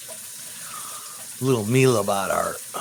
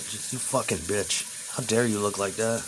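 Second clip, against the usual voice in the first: slow, much softer, under the breath; 2 semitones lower, 6 dB quieter than usual. Real, not acted. Muttering at Sniper Wolf on screen, slow and soft.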